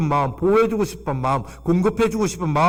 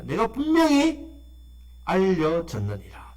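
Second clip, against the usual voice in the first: voicing God; slower than usual. Pastor speaks God's words to the congregation, slow and lifted. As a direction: draw out God's words slowly.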